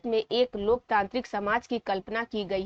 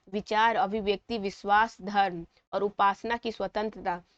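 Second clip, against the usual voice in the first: chanting the preamble aloud to learn it; loud recitation. Shown as a demonstration. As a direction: read it out with josh like a student memorising. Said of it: "और ऐसे पढ़ना है".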